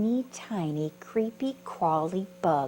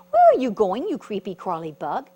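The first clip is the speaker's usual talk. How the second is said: grasshopper's voice; 9 dB louder than usual. Acted. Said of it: "a grasshopper who said".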